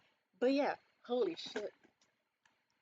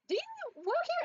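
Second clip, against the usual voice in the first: surprised question. Retold or imitated. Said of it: "they were like".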